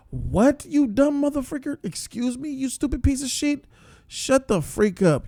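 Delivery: high-pitched, furious ranting at the screen; outraged rant. Real, not acted. Viewer ranting at the TV hero, high and furious. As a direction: yell insults at a dumb TV character.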